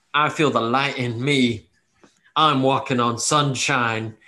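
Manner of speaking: slow, measured proclamation of inner light; emboldened. Acted. Game master voicing the cleric's feeling before removing the curse, emboldened. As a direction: savor each phrase, slowly and boldly. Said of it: "you feel this emboldened sense of".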